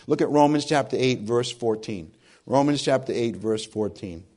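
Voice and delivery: hoarse, froggy voice; raspy and horsey throat. Real, not acted. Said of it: "I sound worse than I thought".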